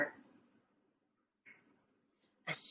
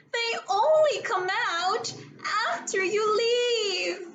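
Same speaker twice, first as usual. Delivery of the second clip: a touch of fearful insistence; 10 semitones higher than usual. A narrator's reading. Scared girl insisting.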